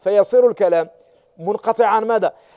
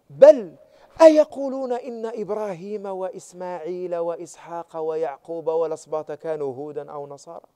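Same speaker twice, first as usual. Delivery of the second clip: quieter, scolding rhetorical question; reproachful question; 2 semitones lower, 4 dB quieter than usual. Shown as a demonstration. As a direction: deliver أيقولون as a rebuke. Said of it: "استفهام إنكاري".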